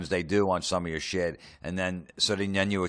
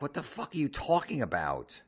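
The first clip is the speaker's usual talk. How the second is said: a higher-pitched what-the-hell, baffled not angry; reacting to a complaint he never saw; stunned, high and bewildered; disbelieving outburst; 9 semitones higher, 4 dB quieter than usual. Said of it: "I'm like".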